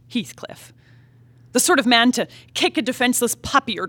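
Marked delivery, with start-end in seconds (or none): 0.1-0.7 whispered name. Acted. Names the monstrous man with dread.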